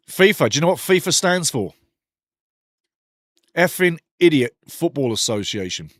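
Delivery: punchline joke. Shown as a demonstration. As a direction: shout out the joke: Effing Idiot Football Association. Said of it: "There you go".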